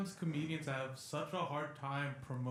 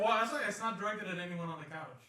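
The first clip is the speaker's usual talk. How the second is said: sarcastic. Acted. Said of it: "I'm sensing some sarcasm".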